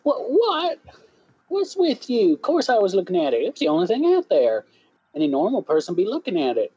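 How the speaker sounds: high-pitched indignant Southern witness; Southern accent. Acted. Southern witness answering the lawyer's challenge, indignant Southern accent. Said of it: "this is the one accent".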